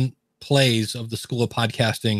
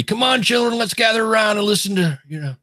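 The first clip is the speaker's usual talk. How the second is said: lightly voiced 1950s radio host, pitched up; a hint of a cheery old radio announcer calling the family; old-timey radio voice; 9 semitones higher than usual. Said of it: "I don't know how to do old-timey radio voice".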